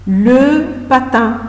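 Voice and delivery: "Le patin" stretched slowly; slow model word. Shown as a demonstration. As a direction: draw out "Le patin" for dictation. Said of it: "le patin à roulettes". ("Le patin" lentement)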